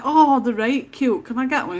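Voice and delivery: asking her partner for a gnome, mock wheedling. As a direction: coax him like a child asking for a toy. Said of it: "And I'm like".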